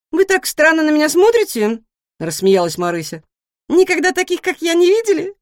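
high, loud, rapid-fire questions; a nosy little pig who can't stop asking; chatty guinea pig. A narrator's reading. Guinea pig pestering the new cat with questions.

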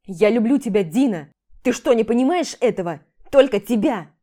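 loud, pleading confession; desperate declaration. Acted. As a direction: insist he loves her. Husband declares love in fight. (громкое отчаянное признание)

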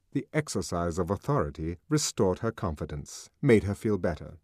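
ordinary delivery

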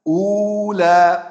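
مسؤولا slow, sounded مسولا; hamza dropped. Shown as a demonstration. Teacher shows مسؤولا read with transfer. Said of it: "سقطت، تبقى مسؤولا".

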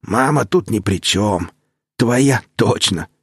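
slow, dry mocking retort; mocking snort. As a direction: sneer the words out slowly. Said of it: "фыркнул Таши".

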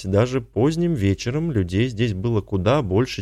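usual speaking voice

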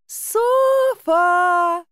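high, loud carrying shout; a loud hoarse cry into the night. A narrator's reading. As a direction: yell her name across the woods. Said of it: "замогильным карканьем".

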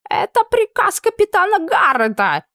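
offended cry. Acted. Camp cook shouting to Anna, offended and squeaky. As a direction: cry it out, wounded. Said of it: "обиженно прокричал".

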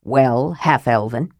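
low, slow dwarf voice; gruff dwarf challenge. A narrator's reading. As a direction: put it to him gruffly, drawn out.

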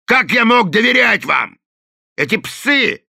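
loud, high furious yell; Delaney yelling at the gang; angry shout. A narrator's reading. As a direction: shout the insult.

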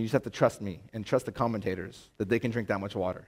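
usual speaking voice

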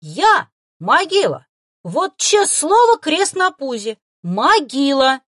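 very high, loud, slow solemn promise; eager vow. Acted. Boy vows to keep the fox's secret, fervent. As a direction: swear it like a kid. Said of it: "заверил он".

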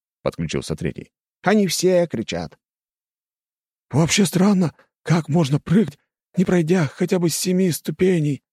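high, eerie ghost chatter. Acted. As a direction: voice a gossiping ghost. Ghosts bicker in high voices.

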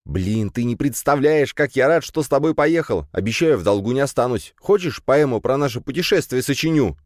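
pleading with his brother to stop the car; eager young Kirill. Acted. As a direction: younger brother eager to see real cows.

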